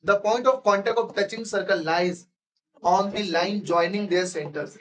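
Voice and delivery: very slow, deliberate read-aloud; textbook reading. Acted. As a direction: dictate it word by word to the class. Reads textbook line slowly. (धीमे-धीमे पाठ पढ़ना)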